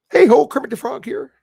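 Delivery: high, loud froggy puppet voice; bright high puppet greeting; Kermit impression. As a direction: pitch up into a cheery Kermit. Reading chat name Kermit, imitates him.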